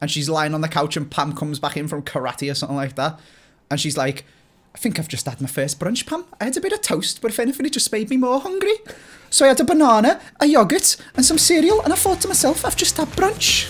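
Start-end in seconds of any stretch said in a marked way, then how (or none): 4.7-13.7 very high-pitched, put-on Welsh accent. Retelling what she said to Pam from the couch, Welsh accent impression. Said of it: "That's that's where my Welsh impression comes from".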